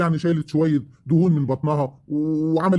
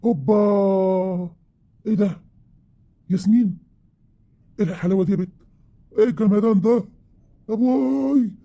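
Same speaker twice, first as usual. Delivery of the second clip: higher, drawn-out wow at his wife; amazed; 5 semitones higher than usual. Acted. Husband back from a trip to his wife, amazed. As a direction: gasp at how she looks now.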